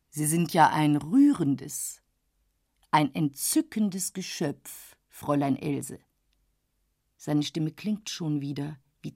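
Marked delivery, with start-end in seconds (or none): 0.1-6.0 tiefer, langsamer, schmeichelnder Herr; säusle ihr gönnerhaft Komplimente; schmeichelnder älterer Herr. Acted. Dorsday schmeichelt. (Dorsday schmeichelt Else, tiefer und langsamer)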